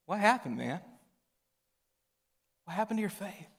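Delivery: gentle concern. Retold or imitated. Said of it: "his countenance was like".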